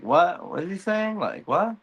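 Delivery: high, bewildered what; a lost king who can't follow; baffled Aegon. Retold or imitated. Aegon baffled by Valyrian, high confused voice. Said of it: "And it's like".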